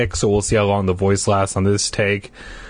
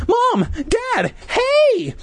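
happy shout; much slower than usual. Acted. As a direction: shout for them joyfully. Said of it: "I shouted happily".

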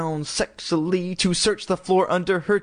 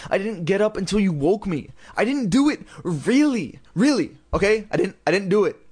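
frantic protest; 6 semitones higher than usual. A narrator's reading. Lindy protests innocence.

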